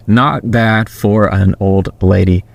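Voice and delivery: slow, each word drawn out. Shown as a demonstration. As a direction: say it slowly, spelling out every word. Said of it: "say that again slower for me".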